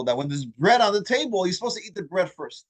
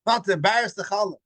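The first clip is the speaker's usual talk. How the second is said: proud quoting; 4 semitones higher than usual. Retold or imitated. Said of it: "he's like all proud".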